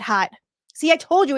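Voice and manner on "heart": heart said as "hot" in a Boston accent. Shown as a demonstration. Streamer repeating her slip for viewers, Boston accent on "hot". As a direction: drop the R, Boston-style "hot". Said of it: "with my Boston accent".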